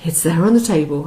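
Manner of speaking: a brisk, blunt put-down; curt retort. Retold or imitated. Imitating the waitress as curt, brisk and blunt. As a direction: toss it off fast and blunt. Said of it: "She didn't say it like you did".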